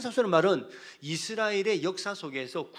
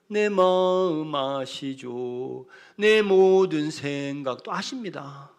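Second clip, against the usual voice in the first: slow prayer; 6 dB louder, much slower than usual. Acted. Prayer voiced slowly.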